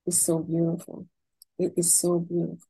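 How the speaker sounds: soft, low, heartfelt wonder; hushed awe. Real, not acted. Mother moved by her son's Torah words, in hushed awe. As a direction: drop the voice softly, moved by what you describe. Overcome by gratitude, after long pause.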